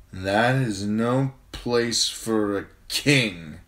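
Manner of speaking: insulted prince protesting his seat; indignant declaration. A narrator's reading. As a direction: declare it with wounded royal pride. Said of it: "her brother declared".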